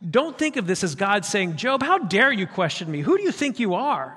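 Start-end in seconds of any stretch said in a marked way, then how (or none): 1.6-4.2 browbeating God. Acted. Wrong image of God scolding.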